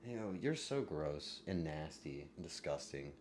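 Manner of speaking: normal talking voice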